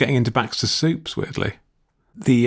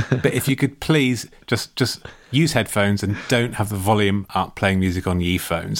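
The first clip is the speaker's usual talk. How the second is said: mock matey plea to teenagers, trailing lower; informal appeal; 4 semitones lower than usual. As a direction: pretend to reason casually with noisy youngsters. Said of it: "try it more, more, more informal".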